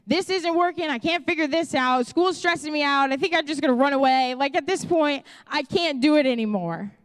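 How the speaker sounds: unload it all on dad in a mock rant. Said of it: "I'm ranting".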